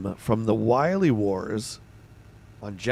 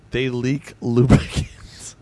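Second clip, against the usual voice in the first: breaking into laughter; slower than usual. Real, not acted. Joke answer, trailing into laughter.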